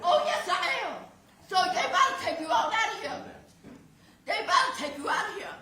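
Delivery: ragged crying fury, spat-out curses; enraged yelling. Real, not acted. Mother curses the defendant across the courtroom, sobbing fury. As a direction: threaten him while sobbing and shaking with rage.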